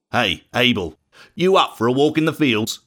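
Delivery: a sly friendly call to his brother; a hint of a plotting older brother; Cain's casual invite. A narrator's reading. Cain invites Abel, scheming.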